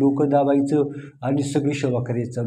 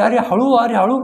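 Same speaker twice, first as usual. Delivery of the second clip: mock cry of pain; 5 semitones higher than usual. Guru cries out under rough massage.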